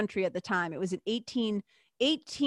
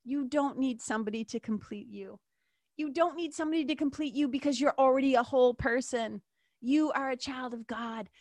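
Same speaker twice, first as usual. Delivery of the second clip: heartfelt plea; 4 semitones higher than usual. Retold or imitated. Host telling young women in the audience they are whole. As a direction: tell them gently they are already whole. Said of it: "say to them".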